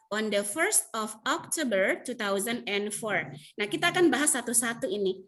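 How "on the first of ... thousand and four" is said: slow model reading. Shown as a demonstration.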